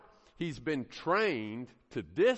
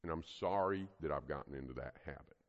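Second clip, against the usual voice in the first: mom apologizing; 6 semitones lower, 3 dB quieter than usual. Acted. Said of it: "so she said".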